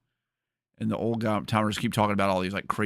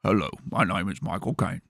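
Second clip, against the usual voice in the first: Michael Caine impression. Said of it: "get good at a Michael Caine impression".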